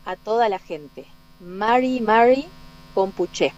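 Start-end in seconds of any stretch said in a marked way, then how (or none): 1.5-3.5 "Mari, mari, compuche" said in separate chunks with pauses; 示范问候语. Shown as a demonstration. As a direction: model the greeting "Mari, mari, compuche", lifting the second "mari". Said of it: "por ejemplo, una forma de saludar".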